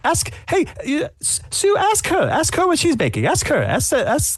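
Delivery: high, insistent whisper-urging; eager character voice. Acted. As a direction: nudge someone to ask, pitched high.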